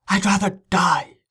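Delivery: put-on high-pitched desperate girl. A narrator's reading. Girl refuses to be taken home, desperate. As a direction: burst out in despair, pitched well up. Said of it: "The desperation in her voice".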